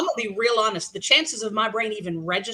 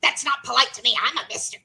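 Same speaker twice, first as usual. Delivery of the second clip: higher-pitched indignant retort; imitated outrage; 4 semitones higher, faster than usual. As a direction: mimic an offended caller insisting. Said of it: "this guy lost his mind".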